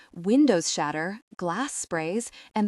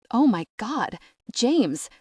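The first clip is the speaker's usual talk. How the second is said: high, loud panicked scream; 4 semitones higher, 4 dB louder, slower than usual. Acted. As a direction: scream his name into the smoke. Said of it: "I scream".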